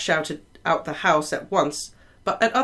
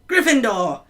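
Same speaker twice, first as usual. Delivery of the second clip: higher, louder call; Hat shouting; 7 semitones higher, 5 dB louder than usual. A narrator's reading. Sorting Hat finally decides, loud shout. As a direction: shout the house out at last. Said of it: "When it finally shouted".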